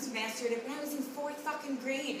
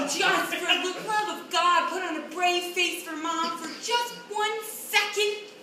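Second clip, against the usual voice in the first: exasperated pleading; 4 semitones higher than usual. Acted. Parent begging sensitive Ryan for a brave face, exasperated pleading. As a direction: beg for one second of composure.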